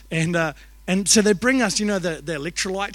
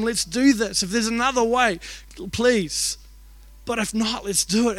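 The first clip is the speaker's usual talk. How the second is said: acted earnest prayer, pitched up; Jesus; 3 semitones higher than usual. Jesus prays to God in Gethsemane, acted earnest plea. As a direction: plead urgently with the Father, re-enacted. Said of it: "when he's in the Garden of Gethsemane".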